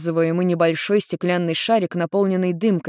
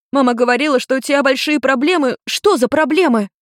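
higher, rapid-fire angry questions from a daughter; 9 semitones higher, 4 dB louder than usual. Acted. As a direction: scold him with a flood of questions. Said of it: "сменила тон на сердитый".

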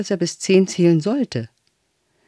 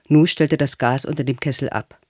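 usual speaking voice

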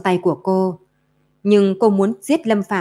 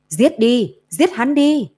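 piercing voices; 5 semitones higher, slower than usual. Acted. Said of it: "thanh âm chói tai".

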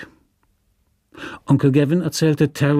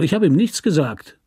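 mild outcry; 4 semitones higher than usual. Acted. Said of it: "rief Terrell".

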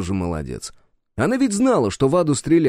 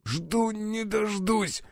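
much higher, softer and slow, squeezed out with no breath; strained, choked voice; 11 semitones higher, 7 dB quieter, much slower than usual. Acted. Hero answering Cerberus with his ribs broken, choked and strained. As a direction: force the words out winded after a blow. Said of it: "сдавленным голосом ответил я".

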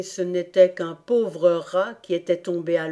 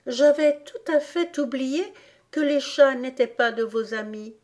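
put-on higher, contrite little-girl voice; repentant; 6 semitones higher than usual. A narrator's reading. Alice excuses herself to the rat for mentioning cats, repentant. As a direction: excuse yourself sweetly, pitched up. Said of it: "d'une voix repentante".

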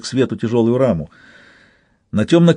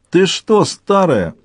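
a man thundering from behind the doors; booming bellow; 5 semitones higher, much slower than usual. Acted. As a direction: bellow it like a big soldier at the door. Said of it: "загрохотал бас".

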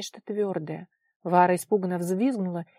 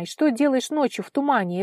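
louder, higher, stern demand; stern questioning; 5 semitones higher, 6 dB louder than usual. A narrator's reading. Vara asks what the girl does at night, sternly. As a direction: question like a strict elder. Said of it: "строго спросила она".

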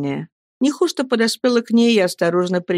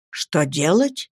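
put-on old servant echoing; slower than usual. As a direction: repeat it calmly, weighing it. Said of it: "повторила Нехушта".

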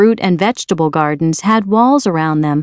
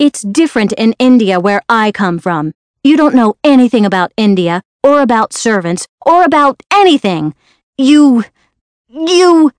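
put-on raised, quick, furious child's protest; a spoiled girl snapping back hotly; furious outburst; 4 semitones higher, 3 dB louder than usual. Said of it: "Mary was furious with Martha".

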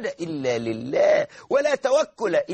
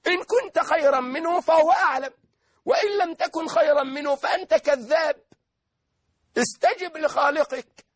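higher, near-crying preaching voice; impassioned preaching; 9 semitones higher than usual. Acted. Preacher rebuking Iblis before the congregation, fervent and near tears. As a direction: plead with rising fervour.

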